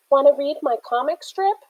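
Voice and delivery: high, chirpy offer; eager kid voice. A narrator's reading. Boy offers his comic to a girl, eager. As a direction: push your comic on them. Narrator voices imagined doodler.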